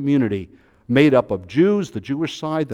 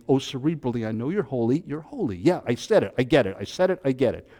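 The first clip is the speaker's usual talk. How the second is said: detached, dismissive; faster than usual. Shown as a demonstration. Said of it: "I'm not just standing there going".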